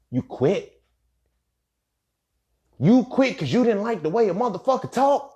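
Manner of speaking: high, loud, incredulous question; outraged disbelief. Retold or imitated. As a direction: act out stunned outrage, pitch climbing steeply. Acted disbelief at her quitting.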